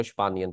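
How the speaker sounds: स्पानियन run together with sh at the start; joined three syllables. Shown as a demonstration. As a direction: say स्पानियन whole, keeping नी and अन distinct. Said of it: "इसलिए हम इसको स्पानियन पढ़ेंगे".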